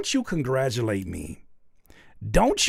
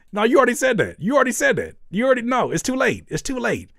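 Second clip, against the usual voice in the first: high, loud playful scolding; hammed-up you're busted; louder, higher teasing accusation; mock angry callout; 9 semitones higher, 5 dB louder than usual.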